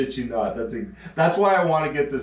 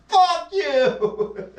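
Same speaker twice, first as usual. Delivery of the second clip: much higher, laughing insult; mock angry retort, laughing; 3 dB louder than usual. Emma cursing him through laughter, mock anger. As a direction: swear at him while cracking up.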